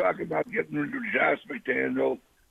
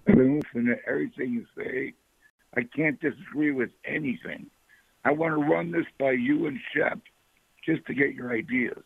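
raspy voice. Real, not acted. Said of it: "Sorry for my raspy voice".

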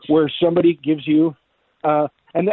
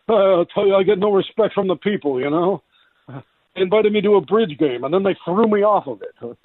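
lightly voiced complaining comic as king, pitched up; Rodney Dangerfield; 3 semitones higher than usual. King George the Third griping about the people, in a comedian's voice. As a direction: play the king as a put-upon stand-up comic. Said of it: "we've taken Rodney Dangerfield's voice and we've turned him into".

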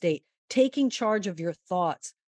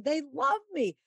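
higher, thrilled and beaming; retelling her joy as the crowd cheers; a happy golfer waving to fans; delighted golfer; 7 semitones higher than usual. Retold or imitated.

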